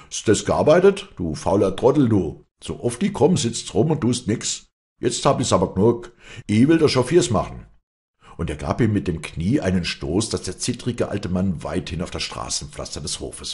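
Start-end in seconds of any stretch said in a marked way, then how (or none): 0.1-7.7 loud, higher-pitched scolding tirade; angry shouting. Acted. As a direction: bawl out the lazy farmhand. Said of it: "schrie er ihm ins Ohr". (wütend angeschrien)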